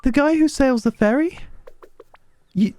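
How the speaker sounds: high, friendly village woman; high character voice. Acted. Voices game character dialogue.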